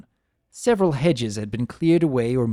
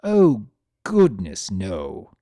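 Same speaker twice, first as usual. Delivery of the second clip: frantic; 3 semitones lower, 4 dB louder, slower than usual. Acted. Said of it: "I thought frantically".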